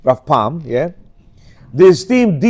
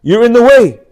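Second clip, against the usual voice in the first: louder, higher shove-aside line; retold rebuke; 4 semitones higher, 6 dB louder than usual. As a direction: tell the photographer off. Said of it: "says the witness".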